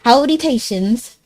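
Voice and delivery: attempted country drawl; country accent. Streamer greeting chat, attempted country accent. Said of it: "I'm trying to say that in, like, a country accent".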